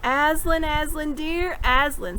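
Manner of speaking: tearful, overjoyed calling of his name; a sob of relief at finding him; sobbing with joy. Acted. Lucy to Aslan at last, sobbing with joy. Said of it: "sobbed Lucy".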